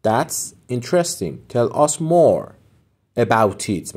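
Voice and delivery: slow, clear teacher read; slow model phrase. Shown as a demonstration. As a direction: lay it out slowly for learners. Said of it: "teacher models phrase".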